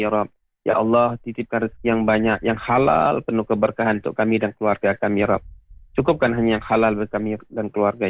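earnest, steady supplication with a repeated ya Rabb; closing prayer. Acted. Ustadz leading radio listeners in closing prayer, earnest supplication. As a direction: pray aloud for the listeners, humbly pleading.

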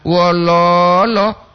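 "Wololo" with the middle lo held long and level; "lo" panjang. Shown as a demonstration. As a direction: double the O in "Wololo" by stretching it. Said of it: "Dua O di lo itu". ("Wololo" dengan "lo" tengah panjang)

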